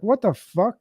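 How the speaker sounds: like he can't believe what's on screen; shocked outburst. Retold or imitated. To the man beside him, after seeing the torture film, a shocked high cry.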